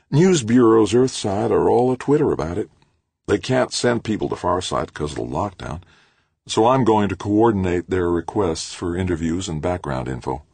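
lightly voiced eager publicist; Edith's voice. Edith explains excitedly.

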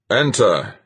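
loud call through a door; muffled command from behind a door. A narrator's reading. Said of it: "came Fuchs's muffled voice".

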